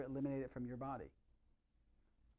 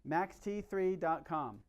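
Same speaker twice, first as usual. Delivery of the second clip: slow dictation; 3 semitones higher, 4 dB louder, much slower than usual. Shown as a demonstration. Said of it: "write this down on your notes".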